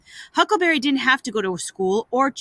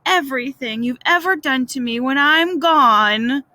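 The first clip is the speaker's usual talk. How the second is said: milk the dying farewell a little; groaned; 2 semitones higher, 4 dB louder than usual. Acted. Boy faking death to his brother, groaning. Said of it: "Tom groaned".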